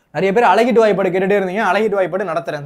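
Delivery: ordinary talk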